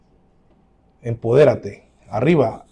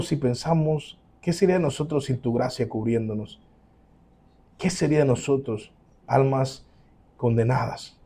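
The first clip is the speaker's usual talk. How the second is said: closing prayer. Acted. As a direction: pray humbly to the Father.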